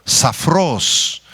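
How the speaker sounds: safros with the accent on the last syllable; "safros" pronounced sa-FROS, with an S; Greek pronunciation. Shown as a demonstration. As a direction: stress the O in "safros". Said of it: "con S y acento en la O".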